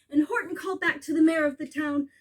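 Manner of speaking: ordinary delivery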